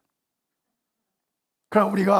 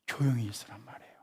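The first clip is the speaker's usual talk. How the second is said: soft, fast whispered command; whispered be quiet; 6 semitones lower, 11 dB quieter, faster than usual. Shown as a demonstration. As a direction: hush it like God stilling the crowd. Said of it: "주님 말씀하세요".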